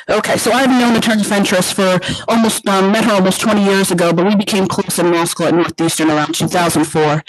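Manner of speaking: muffled, like a covered mic. Real, not acted. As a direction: speak through a covered mouth. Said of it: "you're a little muffled".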